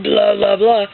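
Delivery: expressive blah demo. Shown as a demonstration. Author shows how dad really sounded, emphatic blahs. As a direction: punch each blah with expression. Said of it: "they don't know he went".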